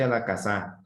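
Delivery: "casa" misstressed as ca-SÁ at the phrase end; wrong stress on final A. Shown as a demonstration. Teacher showing pupils how absurd it sounds, stress on final A. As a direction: put the weight on the last A of "casa". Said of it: "Si lo pongo en la segunda A".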